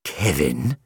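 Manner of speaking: puzzled rising query; bewildered question; confused. A narrator's reading. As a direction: repeat the name, baffled.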